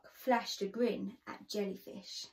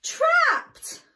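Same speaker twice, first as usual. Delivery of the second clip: much higher, much louder shocked burst; dramatic reveal; 12 dB louder than usual. A narrator's reading. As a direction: hit it as a big shock.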